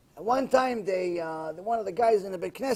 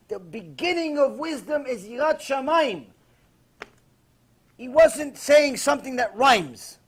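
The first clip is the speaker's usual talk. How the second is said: louder, higher sermon at full force; fiery preaching; 3 semitones higher, 6 dB louder than usual. Acted. Rabbi preaching to his listeners about the tobacco story, fiery and loud. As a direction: drive the moral home to the crowd.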